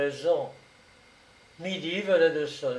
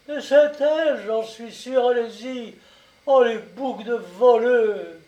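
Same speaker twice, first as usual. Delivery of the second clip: high, loud outburst of wifely rage; enraged cry; 7 semitones higher, 7 dB louder than usual. A narrator's reading. Farmer's wife denouncing the thieves to the gendarmes, enraged. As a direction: cry out in indignant fury, drawing out the last insult. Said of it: "saisie d'une rage nouvelle".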